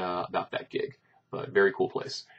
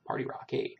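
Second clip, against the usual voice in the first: unvoiced party rock whisper; whispered aside; 7 dB quieter than usual. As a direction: breathe it out softly.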